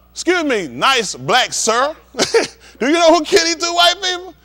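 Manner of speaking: high, put-on overly polite officer voice; mock polite cop. Comedian imitating a police officer questioning him, sugary mock politeness. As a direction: sweeten it like a fake-polite cop.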